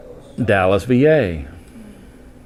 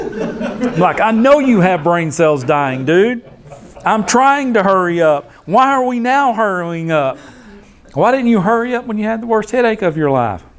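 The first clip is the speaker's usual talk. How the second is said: high, laughing disbelief; real laughter while retelling a scolding reply; laughing exasperation; 10 semitones higher than usual. Real, not acted. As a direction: laugh through an exasperated retort.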